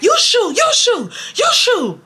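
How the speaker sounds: high-pitched mock yell back; Naomi. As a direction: imitate a friend's childish shouted retort. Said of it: "So Naomi's yelling back".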